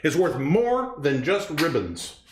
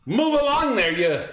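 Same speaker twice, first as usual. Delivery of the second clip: movie pig line. Acted. Repeating the quiz line for her partner, slow drawn pig voice. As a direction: say it again, slower at the end. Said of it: "He's just saying it again".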